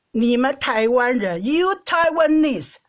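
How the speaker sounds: retold angry husband. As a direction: imitate the husband's slow irritated lecture. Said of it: "你那时候就很生气的跟我说".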